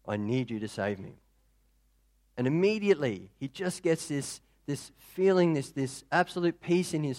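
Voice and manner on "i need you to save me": much softer, almost under the breath; a last, barely spoken plea; fainter prayer. Acted. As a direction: let the plea fade away. Repeated prayer, second take.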